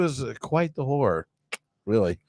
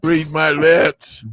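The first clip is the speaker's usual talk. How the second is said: slow, emphatic read my lips; pickup line; 6 dB louder, much slower than usual. Retold or imitated. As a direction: spell out "Read my lips" slowly. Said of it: "I couldn't use that one line".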